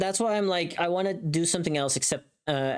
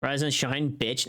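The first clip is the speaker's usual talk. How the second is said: deadpan demo; slower than usual. Shown as a demonstration. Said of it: "this one is peppy".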